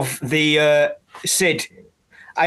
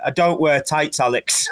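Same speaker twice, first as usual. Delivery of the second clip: deadpan; 2 semitones lower than usual. Retold or imitated. Friend retelling the TV interviewer's answer to Alex, deadpan. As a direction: drop it dryly, barely holding the laugh. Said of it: "deadpan to him".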